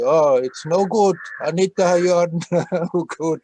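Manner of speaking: half-laughing mock telling-off; mock scolding. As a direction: scold yourself loudly, breaking into a laugh. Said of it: "scold yourself and say".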